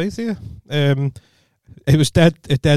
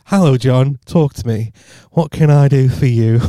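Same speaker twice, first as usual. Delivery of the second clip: telephone voice; 4 dB louder, slower than usual. Retold or imitated. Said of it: "That was me trying to be".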